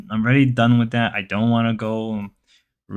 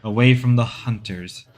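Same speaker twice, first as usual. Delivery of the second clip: nature documentary. Pretend. Documentary narration continues.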